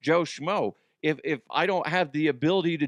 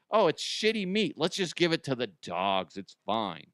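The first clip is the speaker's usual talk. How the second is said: mock careless maker. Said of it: "mocking dog food makers".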